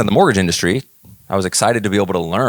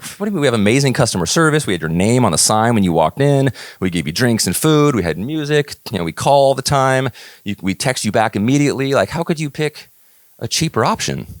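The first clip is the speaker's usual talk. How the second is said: mock outraged rant; 5 semitones higher than usual. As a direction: replay the upset complaint to the client, pitch up. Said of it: "And I was just furious".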